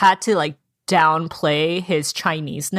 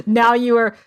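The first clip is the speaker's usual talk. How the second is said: laughing through words; 5 semitones higher, 5 dB louder than usual. Retold or imitated. Laughing while quoting Robin.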